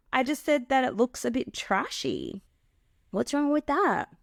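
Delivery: high, brushing-off mock innocence; dismissive gaslighter. Gaslighter brushing off a partner's hurt, dismissive mock innocence. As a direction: wave her hurt away. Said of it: "So if you're upset about something".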